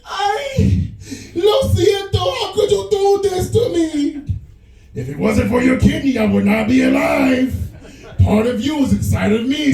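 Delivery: high, slow mock wail with Spanish; betrayed wife. Wife catches husband cheating, high hammed-up wail.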